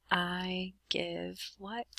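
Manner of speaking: hushed question. Shown as a demonstration. Teacher asks a grammar question.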